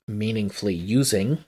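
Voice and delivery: MEANINGFULLY USING picked out as quoted words; emphasis on MEANINGFULLY USING. Real, not acted. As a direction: give MEANINGFULLY USING deliberate weight. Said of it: "I keep emphasizing the words".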